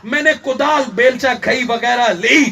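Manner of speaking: forceful sermon storytelling; impassioned preaching. Acted. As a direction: preach it out line by line. Preacher retells at full force.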